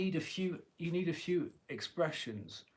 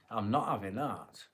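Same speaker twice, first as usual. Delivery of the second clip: broad Yorkshire refusal; no-nonsense Yorkshire voice; Yorkshire accent; 2 semitones lower than usual. Shown as a demonstration. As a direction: put your foot down in a Yorkshire accent. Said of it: "in a Liverpudlian accent, but it's, if you think Yorkshire".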